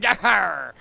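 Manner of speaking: hammy pirate exclamation; bad pirate, hammed up. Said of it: "when I do horrible pirate voices".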